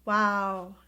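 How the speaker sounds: loud astonished wow; surprised wow. Real, not acted. Reader amazed by the card she just drew. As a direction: gasp it out at the card.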